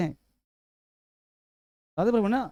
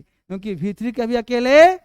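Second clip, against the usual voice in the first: emphatic teaching; 2 semitones higher, 7 dB louder than usual. Real, not acted. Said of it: "emphasising rule".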